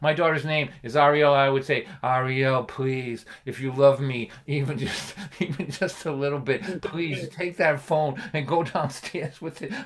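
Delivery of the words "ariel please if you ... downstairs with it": pitiful, defeated pleading on one flat note. Recalling pleading with own daughter about her phone: put-on defeated monotone. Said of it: "speak in a defeated monotone".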